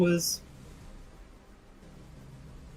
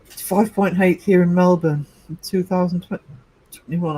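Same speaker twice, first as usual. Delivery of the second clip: talking through hiccups; hiccuping between words. Real, not acted. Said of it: "I've got the hiccups".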